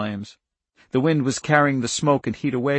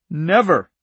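put-on "Never" firmly accented, higher; quiet emphasis; 6 semitones higher, 8 dB louder than usual. A narrator's reading. Charlie repeats "Never" as a vow, emphatic. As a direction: put firm weight on "Never". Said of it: "repeated with quiet emphasis".

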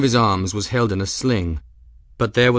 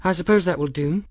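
sharp, dry; 8 semitones higher, faster than usual. A narrator's reading. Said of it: "arched her eyebrows rather sharply".

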